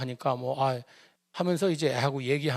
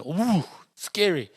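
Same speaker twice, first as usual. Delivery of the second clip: slow, drawn-out mock "scary"; mock scared; 2 semitones higher, much slower than usual. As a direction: stretch "scary" out like a spooked kid. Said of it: "아빠 화나면은".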